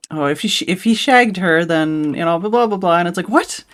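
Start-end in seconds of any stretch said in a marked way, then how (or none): 0.1-3.0 imitated Cockney line. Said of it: "full on Cockney accents". 3.3-3.6 squeaky high baffled "What?"; a sudden jump up in disbelief. Retold or imitated. Friend retelling a video reaction, high incredulous what.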